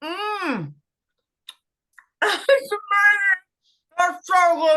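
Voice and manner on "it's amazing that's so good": delighted. Real, not acted. Biting into biscuit, overjoyed.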